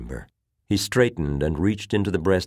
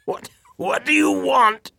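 put-on high, loud gasp from a sick old man; gasping after coughing; 6 dB louder than usual. A narrator's reading. Admiral recovering from a coughing fit, gasping it out. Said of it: "he managed to gasp out at last".

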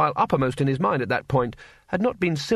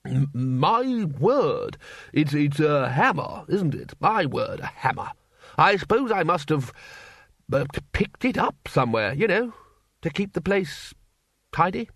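put-on flustered old wizard; 3 semitones higher than usual. Lecturer caught with hammer.

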